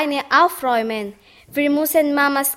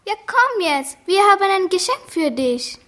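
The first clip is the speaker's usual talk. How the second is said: high excited voice; 5 semitones higher than usual. Acted. Mutter überrascht, Kinder drängen.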